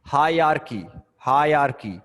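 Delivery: हायरार्की said clearly as hai-ra-ar-ki, falling at the end; model pronunciation. Shown as a demonstration. Teacher corrects a student's reading of हायरार्की. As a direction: spell out हायरार्की slowly for a learner. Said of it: "इसे पढ़ते हैं हायरार्की".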